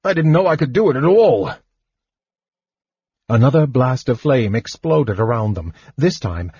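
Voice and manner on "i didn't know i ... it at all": fast, higher, astonished burst; gasped. A narrator's reading. Old mage surprised at his own spell, rushed gasp. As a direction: blurt it out quickly, pitched up. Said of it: "he gasped".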